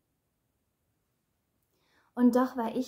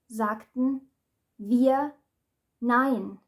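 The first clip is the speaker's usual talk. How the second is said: defiant shout; 8 dB louder, much slower than usual. Acted. Speaker voicing women who finally refuse him, shouting. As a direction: throw the no at him.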